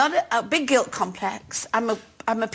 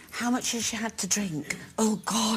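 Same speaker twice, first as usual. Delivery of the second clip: mock worried aside; 4 semitones lower, 7 dB quieter than usual. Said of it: "what you do with Carol is you go".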